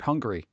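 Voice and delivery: Hungary said like hungry, the food feeling; Hungary as in I need food; pronounced like hungry. Shown as a demonstration. Streamer jokes about the country name, saying it hungry. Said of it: "I pronounce it like I need food".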